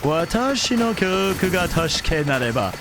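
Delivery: grand, theatrical delivery of a Japanese line; dramatic Japanese. Acted. Answering chat, he speaks Japanese dramatically. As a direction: say it like an anime hero's vow. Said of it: "Why do you sound so dramatic".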